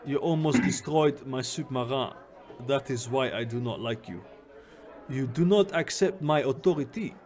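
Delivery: put-on game character in a loose Jamaican accent; attempted Jamaican accent. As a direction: lay down the law in a wobbly Jamaican accent. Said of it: "like, a Jamaican accent".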